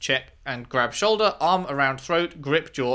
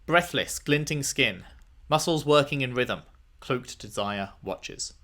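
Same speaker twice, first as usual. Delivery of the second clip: reading a haiku; 3 dB quieter than usual. Acted. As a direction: read it like a sultry poem.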